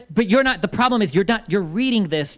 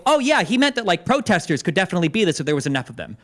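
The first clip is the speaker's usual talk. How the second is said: mocking. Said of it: "would read this and go".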